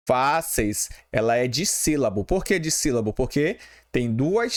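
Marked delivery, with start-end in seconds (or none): 0.1-0.9 "Fáceis" in two separated beats, fá-ceis; split into syllables. Shown as a demonstration. Teacher repeating the word's division for students, split into syllables. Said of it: "Se separa assim".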